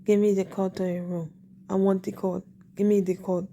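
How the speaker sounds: lightly imitated African-sounding accent; repeated demand with a hint of African accent. Man asking day after day for her code, lightly imitated African accent. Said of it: "he just kept asking".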